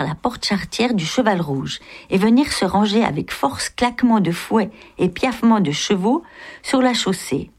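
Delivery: lively, measured novel reading; story narration. A narrator's reading. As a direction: read it out like a literary storyteller. Reads the novel aloud.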